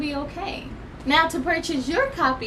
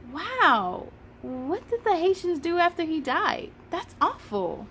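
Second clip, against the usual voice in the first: put-on reading a children's book aloud, lively; story narration. Storyteller reading a history picture book to children, lively. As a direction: read it like storytime for kids.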